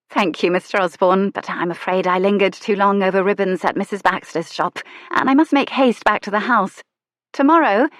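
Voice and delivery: lightly voiced young lady, rising to a call; polite lady hurrying away; lady's voice. Lady answers the shopkeeper.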